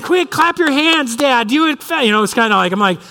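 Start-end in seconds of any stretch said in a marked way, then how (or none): 0.0-2.0 put-on high, slow urgent child's plea; much higher slow pleading child voice; pleading little daughter. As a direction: beg dad to clap like a panicked kid. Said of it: "And she's like".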